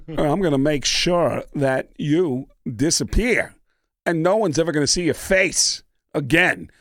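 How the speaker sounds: a hint of Walken's halting, menacing cadence; lightly voiced Christopher Walken. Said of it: "Walken ... goes".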